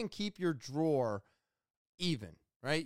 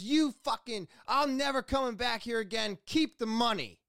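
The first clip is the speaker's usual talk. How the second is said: imitated parting outburst, higher pitched; mock furious exit line, pitched up; retold angry yelling; 5 semitones higher than usual. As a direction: throw it out like a customer storming off. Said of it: "just yelling at me".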